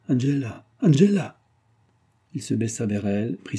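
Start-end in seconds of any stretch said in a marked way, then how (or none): 0.1-0.7 calling out. A narrator's reading. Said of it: "tira les rideaux et s'écria". 0.8-1.4 a sudden high, loud cry of her name; husband crying out to his dead wife in horror; anguished cry. A narrator's reading. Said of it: "tira les rideaux et s'écria".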